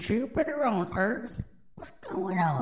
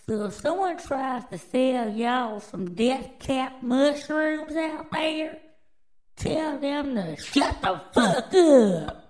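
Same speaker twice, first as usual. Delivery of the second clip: mock warning yell; 3 semitones higher, 4 dB louder than usual. Telling viewers off about death caps.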